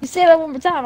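mock parent threat. Threat to kid.

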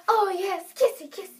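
giggly lovestruck gushing, hammed-up; imitating a gushing romantic. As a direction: tease her with a gushy romantic impression. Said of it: "Gabrielle's that kind of person".

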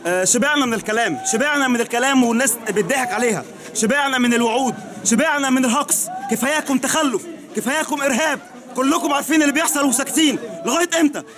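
angry crying. Real, not acted. Grieving witness denounces bombing.

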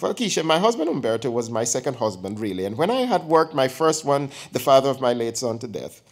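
put-on chatty elderly aunt teasing her nephew; old aunt voice. Aunt teasing her nephew before his girlfriend, lightly voiced old woman.

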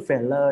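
"failure" read as it looks, fay-ler; "failure" mispronounced as fay-ler; spelling-based misreading. Shown as a demonstration. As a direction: say "failure" with a full L and no y glide. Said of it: "สมมติตัวนี้อ่านยังไง มันก็ดู failure".

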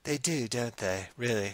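slow, put-on Liverpool accent; lightly played Liverpool voice; mock Liverpool accent. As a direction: agree slowly in pretend Liverpool. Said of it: "Liverpool accent rules".

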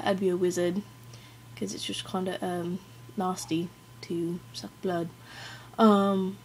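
hesitant amateur British accent; attempted British accent. Shown as a demonstration. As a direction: answer in a not-quite-British put-on accent. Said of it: "attempt a British accent".

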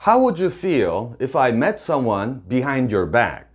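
slow, deliberate English; slow model sentence. Shown as a demonstration. Teacher modelling the girlfriend's line slowly. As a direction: spell it out for the learners. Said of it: "이렇게 얘기를 한다고 상상을".

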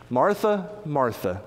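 gently calling her name twice, first one lifted; a loving, soothing call to a friend; Jesus tenderly calling Martha by name. Acted. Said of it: "Jesus says this tenderly".

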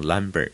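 number turned into lumber, starting with L. Shown as a demonstration. Teacher mimicking learners who confuse N and L, lumber. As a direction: swap the N for an L: lumber. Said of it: "number就会读成lumber".

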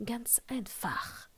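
a hushed, curt snarl. A narrator's reading. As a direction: dismiss it with a clipped rasp. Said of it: "schnarrte Severus".

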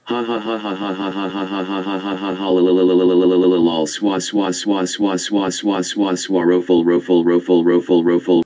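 silly mocking laugh chant; taunting singsong. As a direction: tease in a singsong. Trolling friend with silly chant.

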